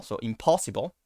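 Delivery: "impossible" with a reduced schwa vowel; English pronunciation. Shown as a demonstration. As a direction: say "impossible" with relaxed unstressed syllables. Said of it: "Like if you say impossible".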